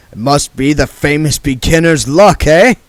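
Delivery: oily card sharp talking down; Mister Frank's voice. Acted.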